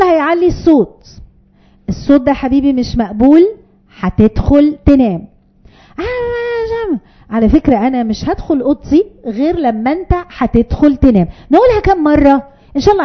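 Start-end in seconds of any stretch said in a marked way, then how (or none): 1.9-5.3 calm firm parent. Shown as a demonstration. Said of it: "لا تتراجع". 6.0-11.3 put-on whiny child. Child whines loudly.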